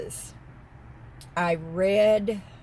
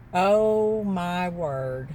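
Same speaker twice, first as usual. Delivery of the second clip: amazed; much slower than usual. Real, not acted. Still marveling at pink truck.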